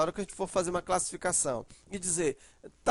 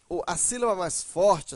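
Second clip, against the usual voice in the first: usual speaking voice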